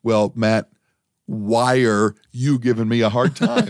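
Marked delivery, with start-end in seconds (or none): 1.3-1.8 "why are" run into "wire"; drawn-out "why are" as wire, mock-English; joke English accent. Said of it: "didn't understand my English accent".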